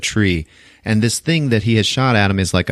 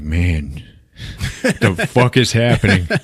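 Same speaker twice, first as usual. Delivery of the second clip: laughing disbelief; slower than usual. Retold or imitated. Kid baffled after the fight.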